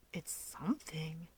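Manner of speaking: whispered reluctant reply. Acted. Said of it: "Fuyumi reluctantly responds".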